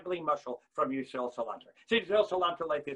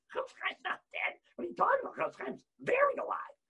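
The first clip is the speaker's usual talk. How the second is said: much higher, mock outrage at the idea; incredulous rebuttal. Real, not acted. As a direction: shoot up in pitch, scoffing.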